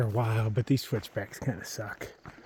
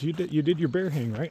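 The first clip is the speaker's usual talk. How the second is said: imitating a sarcastic check-up, slightly raised pitch; 5 semitones higher than usual. Hiking buddy asking about the bear hang, mock sarcastic. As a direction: retell a friend's sarcastic question, pitched up. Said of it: "he sarcastically says".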